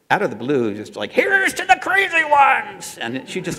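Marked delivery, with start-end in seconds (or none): 1.1-3.0 high, slow, shrieking Phyllis Diller impression; Phyllis Diller scream. Voiceover actress shrieking the ad line in a Phyllis Diller voice. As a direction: screech it like a brassy comedienne. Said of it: "screamed it in her worst possible Phyllis Diller voice".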